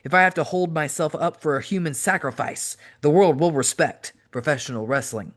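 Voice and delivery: intense, preachy heel promo delivered to Tommy; wrestling promo. Acted. Cactus Jack cutting a promo on Tommy Dreamer, intense and preachy.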